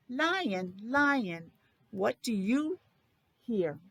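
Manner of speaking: sing-song storybook title, slow on what do you hear; reading to children. Acted. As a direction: read the title like a picture book for little kids. Reads book to class.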